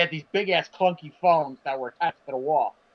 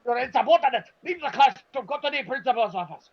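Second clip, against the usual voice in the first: high, hammed-up scolding teacher; a lightly voiced furious substitute; mock angry teacher; 5 semitones higher than usual. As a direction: play the substitute throwing him out, pitched high. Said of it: "That's pretty much what he said".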